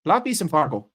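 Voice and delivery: lightly put-on Minnesota accent, vowels stretched; a hint of Minnesota nice. Telling chat how Minnesotans talk, a light Minnesota accent. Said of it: "and you talk like this".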